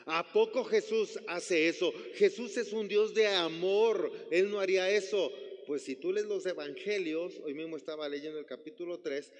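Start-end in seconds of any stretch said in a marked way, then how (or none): 0.1-5.3 incredulous objection. Retold or imitated. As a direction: protest that God of love would never. Skeptic objecting to the preacher. (incredulidad escandalizada, más fuerte y lenta)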